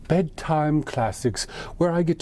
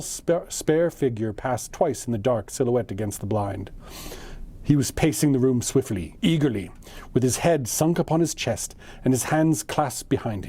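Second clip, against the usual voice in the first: measured audiobook-style reading; story narration. A narrator's reading. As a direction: read a classic tale aloud, phrase by phrase. Reads the story aloud.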